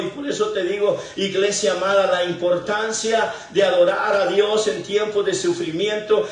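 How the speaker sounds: emphatic preaching, driving through each phrase; prédica exhortativa. Real, not acted. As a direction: exhort the congregation with rising conviction. (predicando con fervor a la iglesia)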